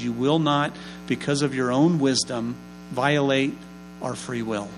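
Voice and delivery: earnest, measured pastoral prayer; closing prayer. Acted. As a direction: pray over the congregation, steady and sincere.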